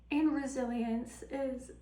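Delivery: wobbly, shaking voice on the words; shaky voice. Real, not acted. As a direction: voice trembling and shaking. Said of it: "sorry, my voice is shaking".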